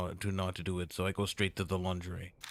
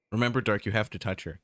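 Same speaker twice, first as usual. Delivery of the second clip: urging inner voice; 3 semitones higher, 5 dB louder than usual. Acted.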